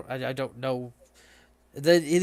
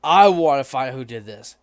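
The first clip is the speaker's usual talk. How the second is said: gruff Minotaur; 2 semitones lower, 6 dB louder than usual. Acted. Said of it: "the other Minotaur goes".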